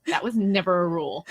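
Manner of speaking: put-on lightly snarky retort of a child; snarky seven-year-old. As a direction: talk back with a touch of snark. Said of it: "snarky seven-year-old me goes".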